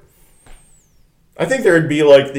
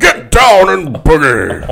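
Nixon impression; 5 semitones higher, 5 dB louder, slower than usual. Continues the Nixon bit.

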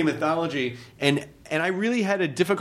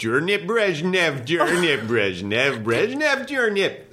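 slow, mock reversed-tape words; backwards recording sound; slower than usual. Shown as a demonstration. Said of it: "if you wanna sound like a recording is running backwards".

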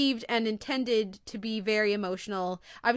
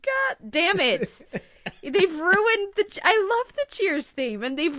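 slow, louder laugh-cry; laughing through tears; 8 semitones higher, 4 dB louder, slower than usual. Real, not acted. Host breaks down laughing at the ruined Cheers theme, laughing and teary. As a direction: laugh it out while still choked up.

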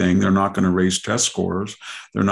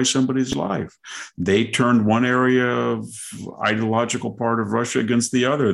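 mock Putin; 2 semitones higher than usual. Continues mock Putin speech.

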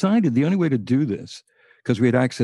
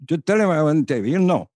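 higher, lightly voiced brush-off; mock caller's voice; 5 semitones higher than usual. Caller refusing to give his name, lightly imitated insistent foreign voice. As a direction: wave the question away, secretive. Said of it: "he said".

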